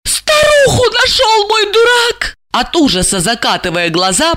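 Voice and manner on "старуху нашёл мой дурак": high, loud, tearful moan. A narrator's reading. Jealous wife to her handler, high tearful moan. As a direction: groan it out in horrified despair. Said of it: "простонала Ася".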